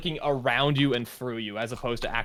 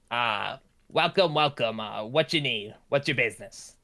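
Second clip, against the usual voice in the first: librarian greeting. Acted. Librarian greeting newcomers at the desk, lightly voiced.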